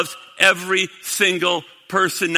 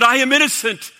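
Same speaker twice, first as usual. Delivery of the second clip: raised protest fading to a hush; crying out. Retold or imitated. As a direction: cry it out, then let it die away. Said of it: "And he cries out".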